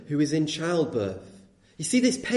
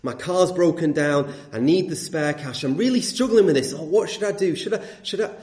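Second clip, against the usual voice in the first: a touch of anguished dithering, acted out; in turmoil. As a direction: lightly play someone torn over a dilemma. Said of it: "he's in this sort of turmoil".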